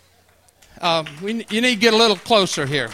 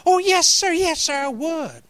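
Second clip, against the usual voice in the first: eager; 8 semitones higher than usual. Retold or imitated. Eager young self answers.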